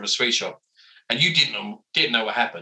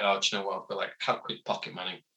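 fast, softer whisper; whispered aside; 4 semitones lower, 8 dB quieter, faster than usual. Retold or imitated. Boy at the comic shop, quick whisper. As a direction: whisper it quickly, like a kid counting coins.

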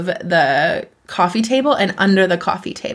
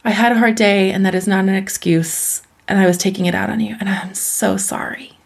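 tender apology. Retold or imitated. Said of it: "you go back and you say".

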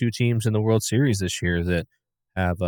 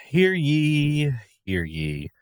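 town crier; 8 semitones higher, much slower than usual. Pretend. Mock proclamation opening pick.

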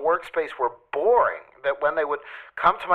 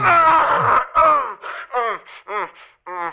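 whimpering; 10 semitones higher, 6 dB louder, much slower than usual. Real, not acted. Sudden crying sounds on call.

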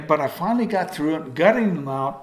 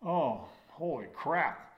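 dismayed surprise; 8 dB quieter, slower than usual. Retold or imitated. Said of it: "and Rod goes".

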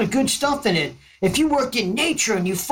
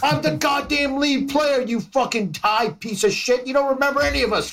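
exasperated rant; 6 semitones higher than usual. Acted. Bandmate yelling at forgetful drummer.

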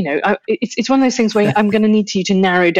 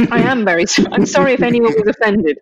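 laughing mock non-apology; fake apology; 4 semitones higher than usual. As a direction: say sorry without meaning it. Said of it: "Are you saying that you're sorry that they feel that way?".

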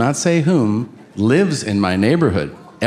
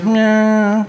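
high, drawn-out "nyaaa" noise; odd imitated whine; 9 semitones higher than usual. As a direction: answer with a long, held, high mock whine. Senator's odd noise in retelling.

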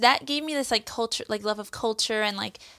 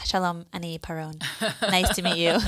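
put-on Israeli accent; 4 semitones lower than usual. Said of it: "me doing my Israeli accent".

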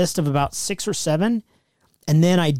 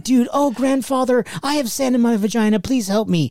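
whiny Kylo Ren impression; 8 semitones higher than usual.

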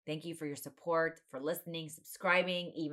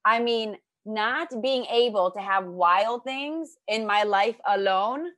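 nervously reading love poem; 3 semitones higher, 6 dB louder than usual. Acted. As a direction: declaim a gushing poem to your guest. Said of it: "Can I read you my poem now?".

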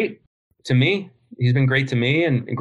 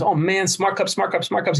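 Smart Cups repeated higher, in a Tyson impression; Mike Tyson voice; 5 semitones higher than usual. Guest mimics Tyson repeating his brand name, higher and delighted. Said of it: "And he goes".

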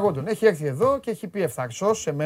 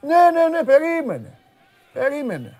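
insistent interruption; 6 semitones higher, slower than usual. Real, not acted. Host telling the others to wait, insistent interruption. Cutting in to halt proceedings.

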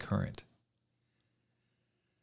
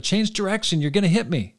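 higher-pitched warning cry, only moderately louder; narrated shout; 8 semitones higher, 4 dB louder than usual. A narrator's reading. Young farmer warns an oncoming boat, restrained shout. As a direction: call out a warning, read as narration. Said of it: "He shouted".

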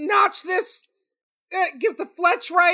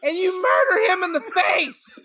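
overacted death scene. Son vows revenge, overacted.

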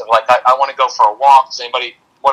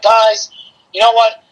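mock exasperated parent, high and loud; barking at kids; 8 semitones higher, 4 dB louder than usual. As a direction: act out snapping at the kids, pitched up. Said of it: "you're barking little things".

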